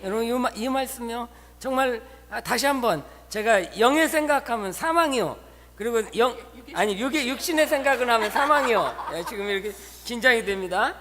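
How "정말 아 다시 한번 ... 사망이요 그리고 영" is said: ordinary talk, nothing marked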